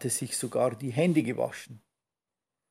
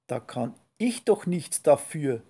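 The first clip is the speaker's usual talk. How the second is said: cheeky; 3 dB louder than usual. Acted. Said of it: "entgegnete das kleine Stinktier frech".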